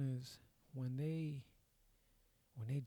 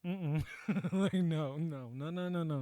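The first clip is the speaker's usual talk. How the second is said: muffled by pillow; 3 semitones higher, 5 dB louder, slower than usual. Retold or imitated. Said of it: "puts her face in the pillow and is like".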